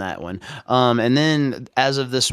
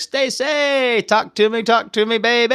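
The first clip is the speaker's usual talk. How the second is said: much higher cartoon voice; movie quote impression; 12 semitones higher, 4 dB louder than usual. Quoting a Goofy Movie one-liner in a high cartoon voice. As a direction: squeal the Goofy line like the cartoon. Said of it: "It's like".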